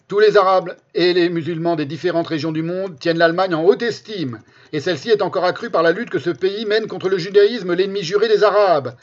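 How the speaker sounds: declaiming a quote. Shown as a demonstration. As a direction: proclaim the quote loudly. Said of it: "qui ça?".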